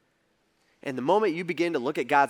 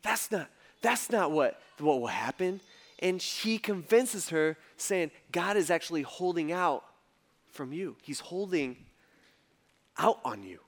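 much softer, low and slow; the lie; 3 semitones lower, 7 dB quieter than usual. Acted. Preacher voicing Satan lying to Eve, soft sly murmur. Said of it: "He says".

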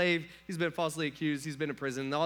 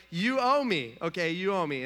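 mock demand; 5 dB louder than usual. Demanding money back, retold.

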